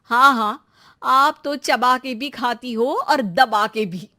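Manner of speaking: mocking jab through a chuckle; teasing laugh. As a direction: tease her, laughing as you say it. Teasing jab at sister-in-law.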